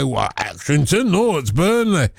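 lightly acted regional reply, rising in pitch at the end; a hint of a Burnley man correcting someone; Tony Livesey imitation. Host mimics a fellow broadcaster's answer on air, lightly acted. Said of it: "and he'd say".

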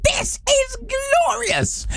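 high, slow swooning "This is glorious"; drawn-out blissful sigh of joy; mock glorious delight. Host to listeners, mock rapture at the sunshine.

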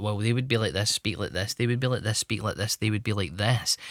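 American TV character. Retold or imitated. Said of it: "American T V shows gave you a, a skewed view".

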